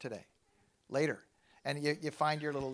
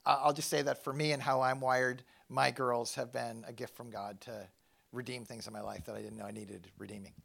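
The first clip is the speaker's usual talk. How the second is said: choked up; 3 semitones lower than usual. Real, not acted. Father telling the church about his girls, voice breaking. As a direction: fight back tears as it quiets. Speaks of daughters redeeming his life.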